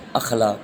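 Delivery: اخلاق opening on short a, "akhlaq"; correct pronunciation. Shown as a demonstration. Teacher repeating the answer, careful "akhlaq" for اخلاق. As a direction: say اخلاق as "akh-LAAQ". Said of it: "درست تلفظ اس میں کیا ہے؟".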